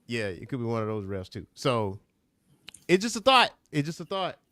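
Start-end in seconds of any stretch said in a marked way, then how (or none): 2.9-4.4 high, playful tease; teasing. Real, not acted. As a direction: tease him about the idea. Teasing the friend.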